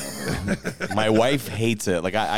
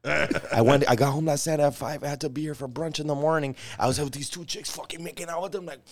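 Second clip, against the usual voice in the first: much softer bro boast; mock party-bro brag; 5 semitones higher, 4 dB quieter than usual. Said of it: "every day he's like".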